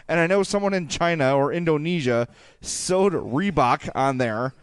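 ordinary talk

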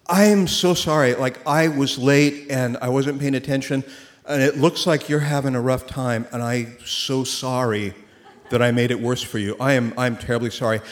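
a hint of a calm, kind stranger apologizing; coolest, kindest apology. Stranger apologizing to an upset driver, mildly kind. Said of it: "in like the coolest, kindest way".

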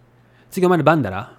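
quick Mikawa Japanese, "だろ" said as "dara"; Mikawa dialect. Shown as a demonstration. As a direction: say it fast in hometown Mikawa dialect. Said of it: "Mikawa dialect".

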